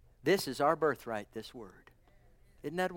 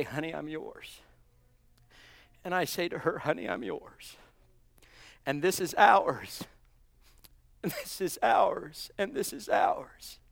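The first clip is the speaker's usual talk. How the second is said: tender vow. Pretend. Tender words to his wife.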